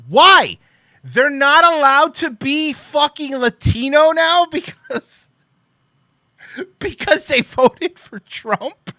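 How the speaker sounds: high, loud, slow incredulous yell with a laugh at the end; outraged yell. Real, not acted. Ranting at the press tweet, a loud disbelieving yell. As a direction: blow up in disbelief.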